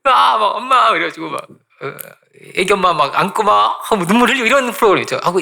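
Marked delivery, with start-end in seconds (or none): 0.0-0.9 high excited call of reunion; excited cry. Retold or imitated. Worker spotting his wife on stage, excited cry. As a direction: cry out to the loved one on seeing her.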